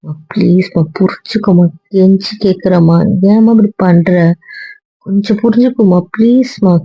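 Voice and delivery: beg, stretching out the word endings; pleading. Acted. Begging, says he is pleading.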